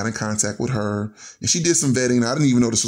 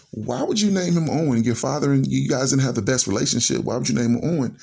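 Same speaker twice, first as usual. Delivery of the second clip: starts high, settles toward usual pitch; retold surprise; 4 semitones higher than usual. Wife questioning husband's choice of name, mildly surprised. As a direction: imitate a mildly baffled objection. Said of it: "my wife was very surprised".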